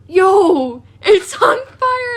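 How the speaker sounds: high, drawn-out mock shout; re-enacted alarm. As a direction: holler it like raising the alarm. Re-enacting alarmed text to sister.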